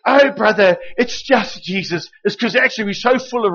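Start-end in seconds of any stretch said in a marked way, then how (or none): 0.1-2.1 mock humble brush-off, drawn out; slow, self-effacing brush-off; false modesty. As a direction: wave off the praise with a modest shrug. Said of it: "The reason we go".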